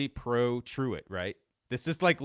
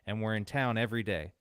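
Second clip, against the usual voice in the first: dramatic read-aloud of a newspaper report; reading an old article. Acted. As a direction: tell it like an old-time news story.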